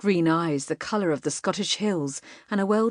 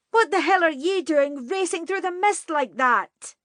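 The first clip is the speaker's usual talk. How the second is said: shouted; 11 semitones higher than usual. A narrator's reading. Katie yells back at the rider who nearly hit them, high shout. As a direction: fling the question back at him, much higher. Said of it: "she shouted".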